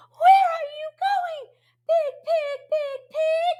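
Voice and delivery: very high chanted question. Shown as a demonstration. Teacher asking the big pig again, high voice. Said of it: "Use your high voice".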